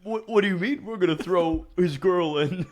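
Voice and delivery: put-on a boyfriend hearing his girl named for the vote, laughing in disbelief; laughing mock confusion. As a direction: play the baffled boyfriend, laughing through it. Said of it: "he's just like".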